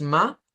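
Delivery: "ma" as a lone open syllable, rising; Spanish syllable reading. Shown as a demonstration. Teacher shows Spanish syllable splitting, "ma" set apart. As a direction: sound out "ma" the Spanish way, pitch lifting. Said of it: "El español nos dice, esto es".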